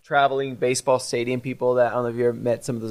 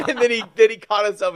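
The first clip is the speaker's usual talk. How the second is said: higher, louder words pushed through laughter; laughing while talking; 9 semitones higher, 5 dB louder than usual. Real, not acted. Host still cracking up telling the story, laughing. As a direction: keep laughing as you talk.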